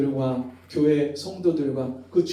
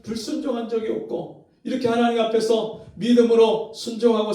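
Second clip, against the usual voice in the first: high, loud, grief-stricken protest to God; anguished lament; 6 semitones higher, 4 dB louder than usual. Retold or imitated. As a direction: cry out accusing God over the lost son. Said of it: "울면서 하나님 앞에 원망하는 거예요". (하나님께 울며 따지는 높고 큰 절규)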